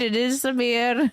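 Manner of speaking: mock Indian caller owning up; put-on Indian accent; lightly hammed-up Indian voice; imitated Indian accent. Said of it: "he was like".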